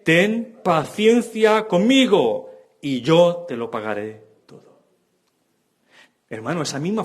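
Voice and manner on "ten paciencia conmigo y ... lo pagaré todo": slow, higher begging plea; pleading. Retold or imitated. Fellow servant at his feet begging, pleading. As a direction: beg for a little more time. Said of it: "le rogaba diciendo".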